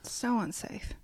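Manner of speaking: soft whispered aside. Real, not acted. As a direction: breathe the words out.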